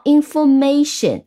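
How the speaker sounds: "information" stressed on the syllable ma. Shown as a demonstration. Teacher gives another example, "information" stressed on ma. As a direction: say "information" leaning on mation. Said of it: "那它重音都是在后面一个音节".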